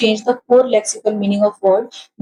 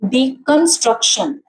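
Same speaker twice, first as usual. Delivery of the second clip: "डीकंस्ट्रक्शन" in separate syllables, डी and ट्रक stressed; faster than usual. Shown as a demonstration. Teacher counts syllables for students, stress on डी and ट्रक in "डीकंस्ट्रक्शन". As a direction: break up "डीकंस्ट्रक्शन", weighting डी and ट्रक but not कन. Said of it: "ट्रक पे फिर आया है".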